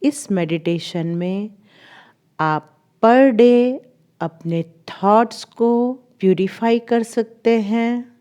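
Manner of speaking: measured guiding voice, long pauses between phrases; guided meditation. Acted. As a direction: lead them gently through recalling the day. (ठहर-ठहर कर ध्यान कराती आवाज़)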